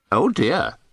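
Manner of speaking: high little parrot remark. A narrator's reading. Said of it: "one of the parrots remarked".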